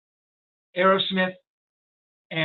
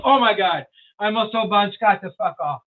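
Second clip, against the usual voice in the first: louder retold "oh no" reaction; mock horrified realization; 3 semitones higher, 6 dB louder than usual. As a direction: play up the dismayed realization. Horror at realizing who he is.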